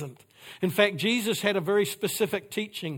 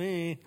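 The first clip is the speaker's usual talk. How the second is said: noncommittal "eh"; 5 dB quieter than usual. Retold or imitated. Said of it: "thumb in the middle, going".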